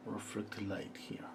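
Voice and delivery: slow whispered note to self. Real, not acted. Painter adding blue reflected light, slow whisper. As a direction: whisper it slowly while concentrating.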